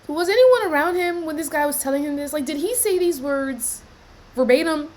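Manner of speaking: indignant outburst. Real, not acted. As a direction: demand answers, fed up. Reacting indignantly to the clip.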